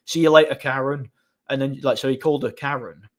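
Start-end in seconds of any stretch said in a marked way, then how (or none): 0.1-1.1 mildly raised mock call; retold shout. Man taunting the woman as she leaves, mild mock shout.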